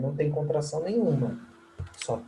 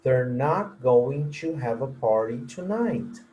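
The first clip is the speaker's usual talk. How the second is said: slow model sentence; slower than usual. Shown as a demonstration. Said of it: "Next example".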